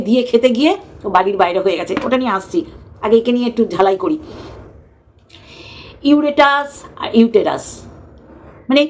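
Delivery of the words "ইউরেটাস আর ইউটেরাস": ইউরেটাস then ইউটেরাস, slowly set apart; slow ইউরেটাস with R first, ইউটেরাস with T first; contrasting pronunciation. Shown as a demonstration. Host mocking a mix-up, slowly contrasting ইউরেটাস and ইউটেরাস. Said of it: "ভুল উচ্চারণ করছে".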